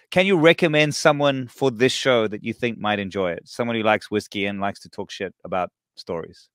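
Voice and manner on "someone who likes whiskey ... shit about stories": a soft cheeky whisper under the breath; whispered aside. Real, not acted. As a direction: drop to a whisper like sharing a naughty secret.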